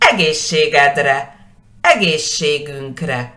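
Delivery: Egészségedre and egészségünkre with the weight on the opening E; egészségünkre stressed at the very start, rest falling away; stress on first syllable. Shown as a demonstration. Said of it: "siempre enfatizando la primera sílaba".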